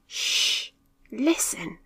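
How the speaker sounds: sharp hush then whisper; hushing order. A narrator's reading. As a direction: silence them, sharply. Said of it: "ordered Mitch".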